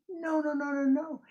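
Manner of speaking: loud, high repeated no; emphatic denial. A narrator's reading. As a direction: hammer the no's home. Narrator stresses no joy.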